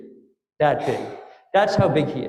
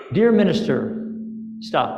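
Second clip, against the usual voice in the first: telegram reading. Acted. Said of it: "Like a telegram".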